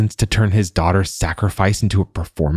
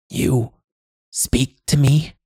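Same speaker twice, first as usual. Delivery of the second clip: put-on high, slow old woman's voice; halting, high-pitched question from an old crone; 8 semitones higher, slower than usual. A narrator's reading. Old woman questioning the man who grabbed her, high crone voice.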